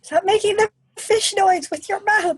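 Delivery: mock a mom telling off her kid; lightly acted motherly complaint; scolding mom. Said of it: "My mom hates when I do that".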